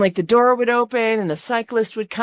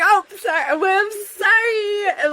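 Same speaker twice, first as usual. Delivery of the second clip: laughing apology; 10 semitones higher, slower than usual. Retold or imitated. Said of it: "I was like".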